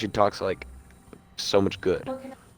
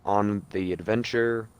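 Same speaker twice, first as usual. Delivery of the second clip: lightly voiced seventies announcer. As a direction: announce the departure like a seventies showman. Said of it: "In, like, a seventies announcer voice".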